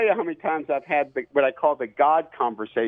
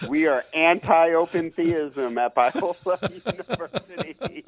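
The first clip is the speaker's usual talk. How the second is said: laughing through it; 2 semitones higher than usual. Real, not acted. Jokey closing remark, laughing.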